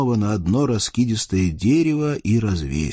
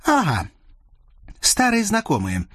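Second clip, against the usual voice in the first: грозно; 11 semitones higher than usual. Acted. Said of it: "грозно начала дочка Сотникова".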